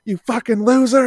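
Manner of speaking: heckling New Yorker. Retold or imitated. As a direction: sneer it like a drunk heckler outside the stadium. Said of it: "he was like".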